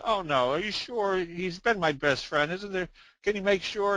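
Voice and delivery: a touch of mock distress; pleading pet owner. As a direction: beg for a second check, joke-telling style. Joke's owner begs vet to check.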